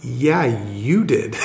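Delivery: slow, laughing "Yeah, you did"; amused reply. Retold or imitated. Lady telling Bob he invited her, laughing slowly. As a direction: let a laugh through, drawn out.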